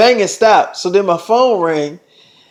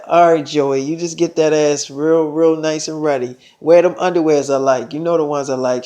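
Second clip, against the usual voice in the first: lower, suggestive phone sweet talk; lightly acted lover's murmur on the phone; lowered seductive voice; 4 semitones lower, 4 dB quieter than usual.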